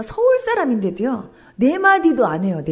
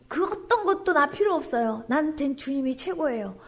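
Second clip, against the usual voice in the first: tender confession; 6 dB quieter than usual. Pretend. Modelling a confession to God.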